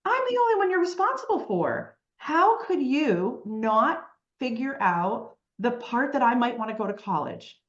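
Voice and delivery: high-pitched, re-enacted indignation; indignant protest. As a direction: act out an affronted kid pleading their case. Acted protest to parents in story.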